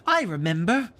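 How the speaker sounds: put-on quick boy. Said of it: "said Slightly instantly".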